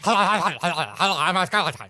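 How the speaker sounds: slow, laughing spooky skeleton. Pretend. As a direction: drawl it out like a cartoon skeleton. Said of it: "do your skeleton impression".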